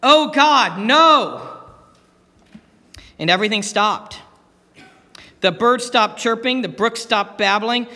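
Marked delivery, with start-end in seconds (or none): 0.0-1.6 loud, panicked cry to God; crying out in fear. Acted. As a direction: cry out in terror. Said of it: "and the atheist cried out".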